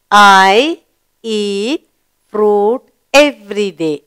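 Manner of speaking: slow, even reading pace; slow read-aloud. Shown as a demonstration. Teacher rereading with the class, slow and clear. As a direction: read it again word by word. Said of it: "Read it again".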